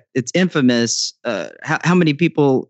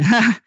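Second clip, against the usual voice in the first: short, higher-pitched awkward "ha"; awkward laugh; 7 semitones higher than usual. Retold or imitated. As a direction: imitate an embarrassed one-note laugh. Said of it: "I just awkwardly said".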